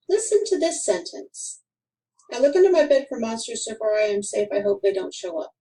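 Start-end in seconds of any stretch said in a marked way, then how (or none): 2.3-5.5 rushed straight through with no stops between sentences; one breathless run-on read; run-on, no pauses. Shown as a demonstration. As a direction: run it all together, no breaks. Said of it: "There is nothing to tell us when one sentence starts".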